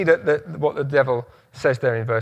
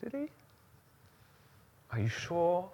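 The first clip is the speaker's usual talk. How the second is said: sly whisper; 3 semitones higher, 12 dB quieter than usual. Pretend. Voicing the devil's doubt.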